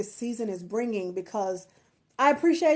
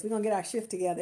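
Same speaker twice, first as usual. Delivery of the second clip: softer, slipping "shift" in as a wink; sly quiet repeat; 6 dB quieter, much faster than usual. Shown as a demonstration. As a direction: drop the voice and hint at the pun in "shift". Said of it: "Watch this".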